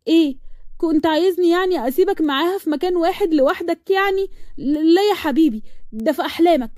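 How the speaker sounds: high-pitched, jealous comeback; defiant lovers'-quarrel voice; indignant retort. Acted. Jealous girlfriend quarrels back.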